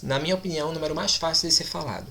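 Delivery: normal talking voice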